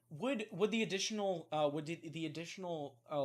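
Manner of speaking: tongue-tied, restarting the question; stumbling over words. Real, not acted. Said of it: "God, I'm choking on my words".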